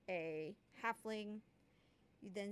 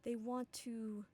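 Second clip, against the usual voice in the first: mysterious voice in head. Acted. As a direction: whisper it into someone's mind. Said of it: "a voice just peeks through".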